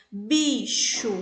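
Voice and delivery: Bicho clearly in two syllables; syllables spoken apart. Shown as a demonstration. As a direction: Bicho split as bi-cho. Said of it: "Pronunciei, ó, abri a boca duas vezes".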